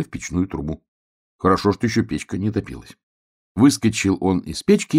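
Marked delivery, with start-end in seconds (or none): none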